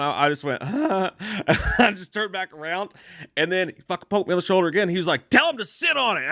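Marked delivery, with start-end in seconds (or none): 5.3-6.2 lightly voiced old man, pitched up; a hint of a cranky old fan. Old man complaining to the fan in front, lightly voiced old man. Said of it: "this dude was, like, Clint Eastwood's age".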